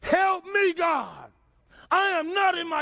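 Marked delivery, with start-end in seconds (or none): 0.0-1.3 soul crying out. Pretend. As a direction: call out to God from the dark. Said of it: "your soul says".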